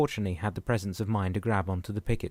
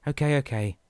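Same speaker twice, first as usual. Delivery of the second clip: louder, higher frustrated yell; yelled okay; 5 semitones higher, 5 dB louder than usual. Acted. Dan yells back over the storm, louder and higher. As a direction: shout it while crawling across the deck. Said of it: "Dan yelled".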